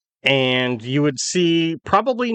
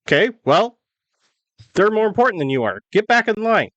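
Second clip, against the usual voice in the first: higher-pitched, quick officer; officer giving orders; 8 semitones higher than usual. Acted. Mounted officer sends private back in line, higher-pitched order. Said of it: "tell the little private to get back in line".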